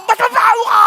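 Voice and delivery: loud, high taunt; mock shouted comeback. Preacher voicing a petty retort, loud and high.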